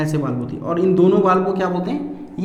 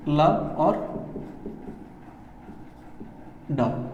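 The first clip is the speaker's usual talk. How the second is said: heart sound demo; 3 semitones lower, 10 dB quieter, much slower than usual. Shown as a demonstration. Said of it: "heart की sound क्या होती है".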